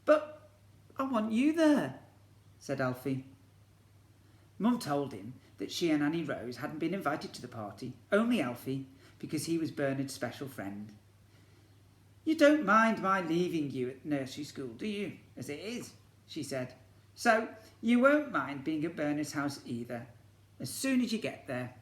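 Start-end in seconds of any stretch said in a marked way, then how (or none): 0.1-2.0 put-on high, loud whiny child voice; little boy Alfie protesting. Alfie begs Mum to stay with him, high child protest. 12.2-21.7 a touch louder, coaxing mum voice; Mum reassuring. Acted. Mum reassures Alfie about the party, coaxing.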